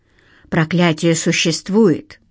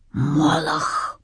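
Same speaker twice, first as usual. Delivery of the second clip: hushed, softer, breath held in dread; frightened whisper; 3 semitones lower, 5 dB quieter than usual. A narrator's reading. Stas, pale with fear, barely voices the dreaded name. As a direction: say the name like it could summon him. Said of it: "бледнее прошептал господин Киселёв".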